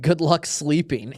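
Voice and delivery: slow, careful broken English; slow grandma voice. Retold or imitated. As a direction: say it like an old grandma. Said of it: "came into our room and said".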